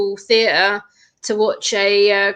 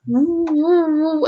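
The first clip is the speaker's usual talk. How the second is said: imitated siren; 7 semitones higher, much slower than usual. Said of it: "the siren is one of the triggers".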